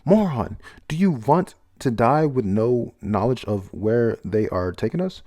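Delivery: reading out a yell without a full shout; mild acted yell. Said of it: "He's yelling at them".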